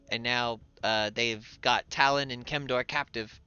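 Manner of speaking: panicked messenger. Acted. Messenger reports bad news.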